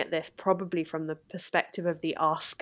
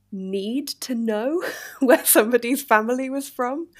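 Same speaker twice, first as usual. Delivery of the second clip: laughing; 6 semitones higher, 5 dB louder than usual. Real, not acted. Laughs at the idea.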